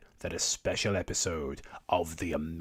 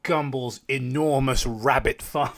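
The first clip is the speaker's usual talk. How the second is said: mocking line; 5 semitones higher, 5 dB louder than usual. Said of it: "you can't just go".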